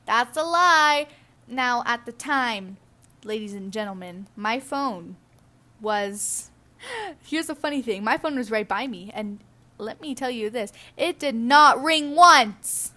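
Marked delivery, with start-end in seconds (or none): 0.1-1.1 loud, slow, drawn-out accusation; indignant. Real, not acted. Calls out the scammer's lie. 11.0-12.9 "did not ring once" loud and slow; emphatic denial. Real, not acted. Emphatic denial after build-up.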